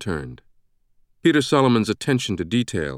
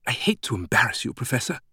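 slightly sheepish British woman; 3 semitones higher, 3 dB quieter than usual. A narrator's reading. British greeter hesitant to embarrass the professor, mildly sheepish. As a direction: broach it apologetically, trailing softer at the end. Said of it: "sounding sheepish".

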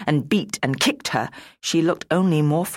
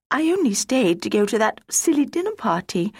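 high, anguished self-blame; rising despair at her own foolishness; distressed self-reproach; 10 semitones higher than usual. Acted. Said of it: "she cried".

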